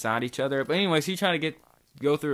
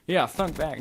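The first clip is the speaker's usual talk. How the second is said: joking wrong word; 3 semitones higher than usual. Shown as a demonstration. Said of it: "No, I thought back".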